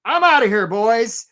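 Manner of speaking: hammed-up crab bailing out with a yell; mock shout. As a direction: crab shouting that he's leaving the trap. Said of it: "he's like".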